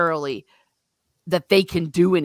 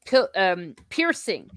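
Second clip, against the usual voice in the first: normal talking voice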